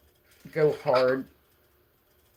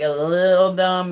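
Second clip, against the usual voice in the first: small-scale emphasis; 2 semitones higher, 6 dB louder than usual. Real, not acted. Contrasts little dumb with big dumb.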